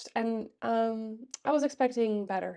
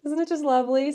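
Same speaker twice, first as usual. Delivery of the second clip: blocked nose, stuffy voice; congested; 3 semitones higher than usual. Real, not acted. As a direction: speak through a congested nose. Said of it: "I am extremely congested".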